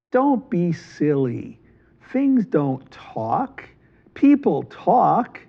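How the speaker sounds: slow, patient dismissal; dismissive. Acted. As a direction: spell it out slowly like to a child. Merchant dismisses their fear.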